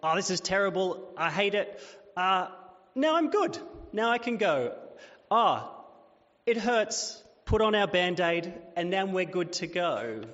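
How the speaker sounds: hammed-up whining that flips to chirpy relief; mock melodrama. Preacher mocking our quick-fix view of suffering, hammed-up. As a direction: play the sufferer, then bounce back bright. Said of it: "We should have a time of".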